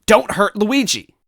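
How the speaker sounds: very high, loud plea; desperate high cry. Acted. Toadette begging the villain to spare Luigi. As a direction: cry out to save him.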